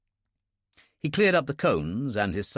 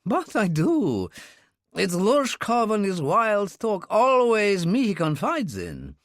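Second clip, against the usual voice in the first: raised, slow, anxious pleading; agitated Russian man; 9 semitones higher than usual. A narrator's reading. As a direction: let the worry spill out slowly. Bounine frets about Lushkov.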